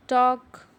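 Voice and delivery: talk, drop the L; silent L. Shown as a demonstration. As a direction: talk said as tawk with no L. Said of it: "उसको ज़ोर से पढ़ेंगे".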